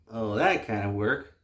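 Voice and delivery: usual speaking voice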